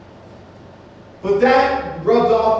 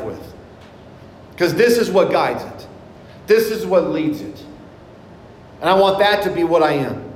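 firm, projected sermon cadence; preaching. Real, not acted. Preacher urging the congregation to read scripture daily, preaching. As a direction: preach with measured emphasis and deliberate pauses.

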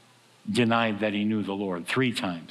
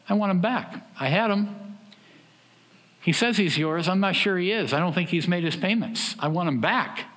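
menacing Satan; 6 semitones higher than usual. Pretend.

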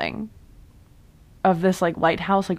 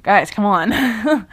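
exasperated plea; 5 dB louder, much slower than usual. Retold or imitated. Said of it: "it's gonna get to a point where it's like".

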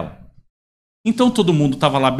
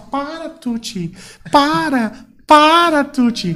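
lady scolding dog; 8 semitones higher, much slower than usual. Retold or imitated. Lady scolding her jumping dog.

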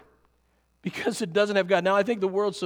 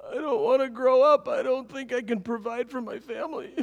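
imitated crying child; 3 semitones higher than usual. Five-year-old son to mom at her bedside at night, mock tearful. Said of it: "and he's crying".

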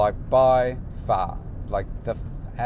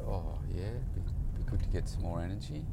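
flat client; 4 semitones lower, 8 dB quieter than usual. Retold or imitated. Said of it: "And he said".

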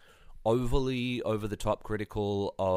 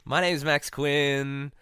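slow host intro; 7 semitones higher, 4 dB louder, much slower than usual. Acted.

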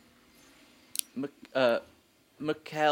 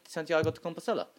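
quick "Santiago de Compostela" with a light Spanish accent; a touch of Spanish on "Santiago de Compostela"; Spanish pronunciation; 4 dB quieter, faster than usual. Shown as a demonstration. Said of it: "it's how it's pronounced".

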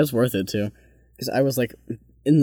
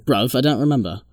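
hammed-up British accent, badly faked; British Ellen. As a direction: do a bad British impression of a friend. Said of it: "That's Ellen".

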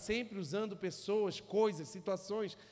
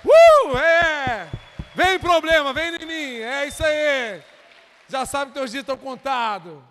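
high, loud victory shout; loud cheer; 5 semitones higher, 17 dB louder than usual. Real, not acted. Preacher leading the church to defy problems, loud cheer. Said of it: "dar uma risada boa aí".

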